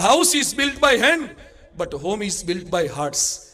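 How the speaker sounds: preacher lingering on a proverb, very slowly; slow maxim. Shown as a demonstration. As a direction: savour the maxim word by word. Quoted maxim for the congregation.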